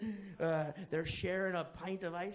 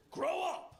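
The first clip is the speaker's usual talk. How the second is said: mock scolding; 10 semitones higher than usual. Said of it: "And then".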